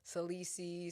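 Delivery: Salisi said as a wrong version; mispronounced name. Retold or imitated. Guest imitating people who misread Salisi. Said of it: "But I've heard".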